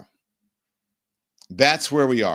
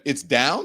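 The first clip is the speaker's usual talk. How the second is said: "down" lifted as a question; questioning tune; 2 semitones higher than usual. Retold or imitated. Host reading a chat viewer's comment, questioning tune. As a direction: read it out with a question mark on "down". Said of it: "question mark".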